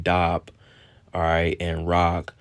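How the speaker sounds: "dab" said slowly as "dahb", "rag" as "rahg", open ah vowels; Hebrew pronunciation. Shown as a demonstration. Teacher showing the class Hebrew vowels, slow open ah. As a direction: spell out "dab" and "rag" with broad ah sounds, slowly. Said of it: "All right, in English".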